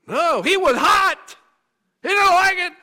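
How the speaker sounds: shouted high and loud; hot with anger. Acted. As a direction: roar it like fury itself. Preacher shouts Cain's anger.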